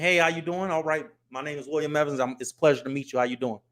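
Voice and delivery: lightly formal business introduction; restrained, professional self-introduction; buttoned-up business voice. Acted. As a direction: button it up for a polite meeting. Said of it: "I button it up".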